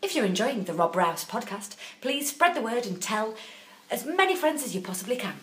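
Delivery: polished advert announcer voice; telephone voice. Pretend. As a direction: read it like a radio advert. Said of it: "why did you put in telephone voice on".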